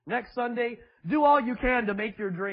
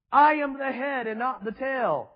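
loud, higher, bold confession of faith; bold declaration; 4 semitones higher, 5 dB louder than usual. Shown as a demonstration. Preacher urging the congregation to declare boldly. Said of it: "you need to boldly say".

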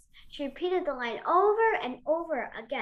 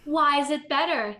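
lightly voiced nagging child; a hint of insistent child; child's swift question; 3 dB louder than usual. A narrator's reading. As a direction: fire back an inevitable child's question. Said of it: "came the swift, inevitable question".

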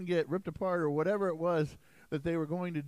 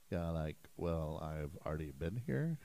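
put-on terrible Valley Girl; 12 semitones lower, 8 dB quieter than usual. Pastor voicing God as a bad Valley Girl imitation. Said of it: "That was a terrible Valley Girl imitation".

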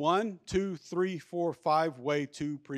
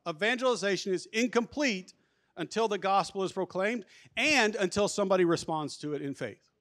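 firm, emphatic key principle, pitched up on "incomplete"; 4 semitones higher than usual. Real, not acted. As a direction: drive home "Evangelization is incomplete" as the main point. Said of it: "I can't emphasize this enough".

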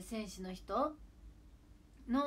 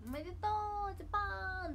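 celebratory cheer; 11 semitones higher than usual. Pretend. Fan imagining congratulating Japan together, high pretend cheer. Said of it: "って言いたいね".

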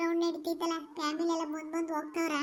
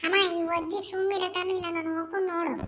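calling out loud; 5 dB louder than usual. Acted. Child calls mother about grandma.

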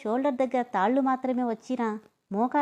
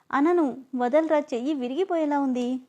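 pained pleading; 4 semitones higher than usual. Acted. Arm being twisted, pleading.

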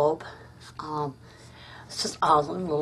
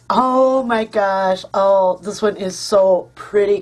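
delighted; 5 dB louder, slower than usual. Real, not acted. Opening the gift card.

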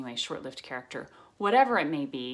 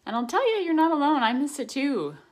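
emotional; 10 semitones higher, 7 dB louder than usual. Real, not acted. Emotional heartfelt outburst.

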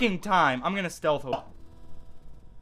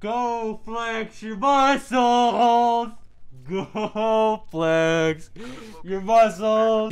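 mocking game voice; 3 semitones higher, much slower than usual. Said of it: "mocking game line again".

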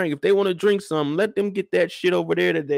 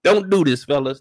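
loud warning to the fellas; punchy loud caution; emphatic warning; 3 semitones lower, 5 dB louder than usual. Real, not acted. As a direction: call it out, louder.

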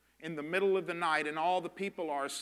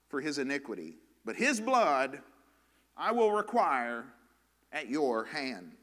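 scripture reading. Real, not acted. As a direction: read it out forcefully, easing down at each close. Reads scripture aloud to congregation.

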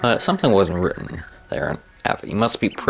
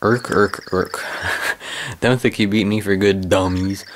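sore loser villain voice. Acted. Villain's defeated parting taunt.

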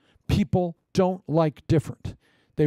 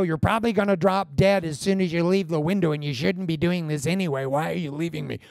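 put-on whiny girlfriend. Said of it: "Not, you know".

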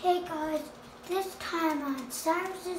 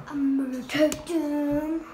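louder, firm statement of intent; loud declaration; 7 dB louder than usual. Real, not acted. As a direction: announce it loudly. Repeats line, much louder.

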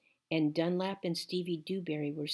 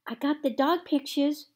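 put-on high, loud child's scream; 10 semitones higher, 8 dB louder than usual. A narrator's reading. Sweetie Pie screams about saving the pictures, loud. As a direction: shriek it excitedly. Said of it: "screamed Sweetie Pie".

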